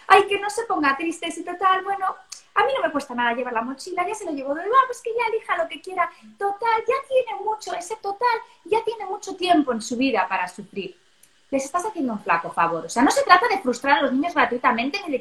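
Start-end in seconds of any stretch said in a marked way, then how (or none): 0.1-11.0 mock overprotective parent.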